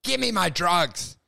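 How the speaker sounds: mock-angry retort, drawn out; hammed-up argument, slow and emphatic; retold yelling. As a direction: replay yourself telling the doctor off. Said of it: "you've been yelling this whole time".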